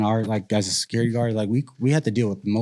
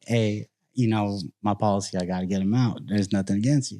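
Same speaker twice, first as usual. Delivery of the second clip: calm reassurance; 3 semitones lower, 5 dB quieter than usual. Retold or imitated. Calmly talking to older guests.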